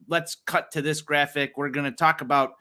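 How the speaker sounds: flat, even broadcaster read; deadpan it like a bored TV announcer; monotone announcer. Retold or imitated. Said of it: "like, monotone".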